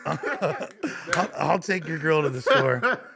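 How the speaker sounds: giving in through a laugh; laughing agreement. Retold or imitated. Caving to the drunk boyfriend, laughing as he agrees. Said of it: "I said".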